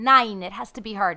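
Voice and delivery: mock Russian accent, drifting German; hammed-up Russian accent; Nicole Kidman Russian accent. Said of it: "probably in a Russian accent".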